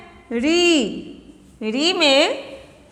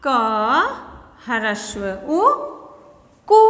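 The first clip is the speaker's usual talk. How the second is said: slow spelling out; 4 semitones lower, slower than usual. Shown as a demonstration. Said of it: "तो ये क्या हो गया".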